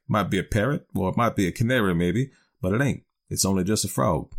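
understated, offhand dialect reply; indifferent. Acted. Smiley telling a stranger what's in the box, mildly indifferent. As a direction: toss it off as if it hardly matters. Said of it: "sort of indifferent like".

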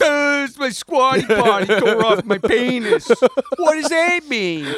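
confused, whiny, rising pitch; dumb tweeter voice. Retold or imitated. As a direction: play a baffled idiot asking for help.

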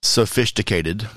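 "Sophisticated" drawn out slowly as so-fish-ticated; punning punchline. Pretend. Host delivers fish joke punchline, "Sophisticated" slowly said so-fish-ticated. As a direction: put a slow "fish" inside "Sophisticated".

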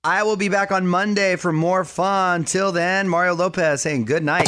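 upbeat, polished DJ sign-off; radio sign-off. Acted. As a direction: wrap up the show for listeners. Radio host signs off.

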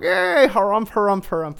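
loud, high blustery harumphs; harumphing crowd. Retold or imitated. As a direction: harumph like stuffy old parliamentarians. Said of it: "everybody's going".

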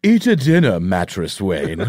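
lightly voiced butler serving dinner. Butler serves dinner in script.

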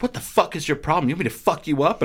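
retold aggressive confrontation; mock threat. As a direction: act out a stranger picking a fight. Acting out a stranger's street threat.

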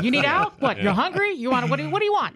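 high-pitched, baffled questions to a dog; mock exasperated guessing, pitch climbing; baffled dog owner. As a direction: plead with the dog to explain. Acting out questioning a barking dog.

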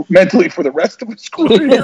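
laughing through the words; cracking up mid-read. Real, not acted. Reading tweet, breaks into laugh.

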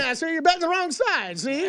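1950s gangster-style voice; old-timey voice. Pretend. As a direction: talk like an old newsreel tough guy. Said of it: "Why do you get the old-timey voice going?".

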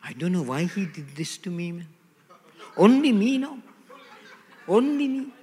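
whiny self-pitying moan, rising into a high, slow sung lament; mock the self-pitying victim, then croon it high and slow; victim spirit voice. Preacher mocking the victim spirit in a whining, crooning voice. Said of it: "That's the victim spirit. That's how it speaks".

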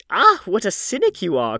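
loud, high exclamation; old lady's delighted-sounding loud reproof; crying out. A narrator's reading. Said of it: "cried the old lady".

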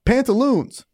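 high playful repeat; drawn-up, mock-grand word; silly call-out. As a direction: say it high, as a goofy announcement.

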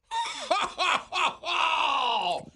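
bright burst of happy laughter; delighted laughing shout. Real, not acted. Delight over line-dried bedding.

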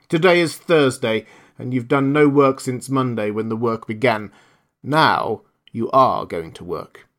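a genie laying down the law; stern genie. Acted. Djinn lectures camel.

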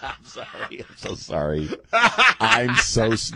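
breathless after a laughing fit; after laughing hard. Real, not acted. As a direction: still catching breath from laughter. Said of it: "I'm having a great time".

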